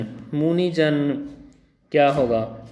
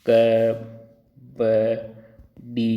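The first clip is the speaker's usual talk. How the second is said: letters spelled out; 4 semitones lower than usual. Shown as a demonstration. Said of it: "देखिए".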